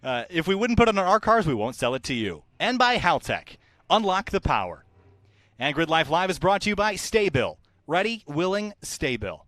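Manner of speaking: lightly hyped sponsor read; a touch of big announcer. Acted. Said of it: "And now comes announcer voice time".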